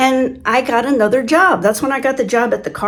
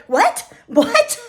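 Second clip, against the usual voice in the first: mock startled what; 13 semitones higher than usual. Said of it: "He'd be like".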